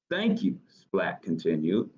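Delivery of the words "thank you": high, tiny squeak of a mouse; squeaky mouse voice. Acted. Reading aloud, the mouse thanks Splat, high squeak.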